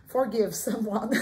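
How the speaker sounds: English words with a French accent; loud, drawn-out French-accented English. Real, not acted. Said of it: "Mon Dieu, je parle en français". (accent français en anglais)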